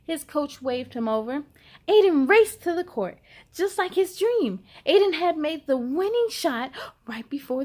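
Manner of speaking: put-on lively read-aloud to children; picture book reading. A narrator's reading. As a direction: tell the story brightly to young listeners.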